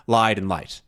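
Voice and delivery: "Lied and light." with long then short vowel; contrasting vowel lengths. Shown as a demonstration. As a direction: stretch "Lied", clip "light". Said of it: "different lengths".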